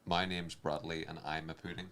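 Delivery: attempted Geordie accent; lightly put-on Geordie accent. Shown as a demonstration. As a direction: try the line in Geordie. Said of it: "in the Geordie accent".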